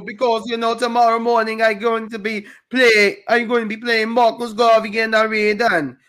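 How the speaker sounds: put-on island patois, deliberate and singsong; amateur Jamaican accent; fake Jamaican patois. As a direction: play at a Caribbean accent. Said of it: "put on fake patois accents".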